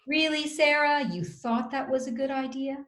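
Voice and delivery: sarcastic. Shown as a demonstration. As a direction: question it with mock disbelief. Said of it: "we're likely to be sarcastic".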